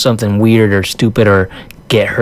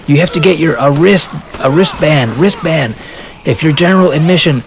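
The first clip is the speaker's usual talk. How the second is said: higher, urgent call of a staffer telling people to wait; hurried staffer call; 5 semitones higher than usual. Retold or imitated. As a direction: call after the running crowd to stop them. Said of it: "somebody that's saying".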